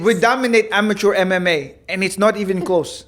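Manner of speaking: put-on amateurish Dagestani accent. Quoting a boastful fighter to a laughing co-host, rough Dagestani accent. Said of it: "I can't do a dag-, I can't do accents".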